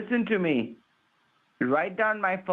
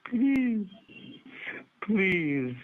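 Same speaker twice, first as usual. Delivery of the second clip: drawn-out whining please; baby crying; 3 semitones higher than usual. Pretend. Scammer begging the caller not to pay, tearfully. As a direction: beg like someone crying. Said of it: "baby crying thing".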